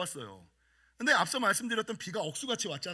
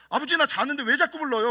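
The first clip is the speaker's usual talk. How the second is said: higher, louder complaint; annoyed complaint; 5 semitones higher, 7 dB louder than usual. Retold or imitated. Son complaining to his father for waking him, loud. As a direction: whine at your father for waking you.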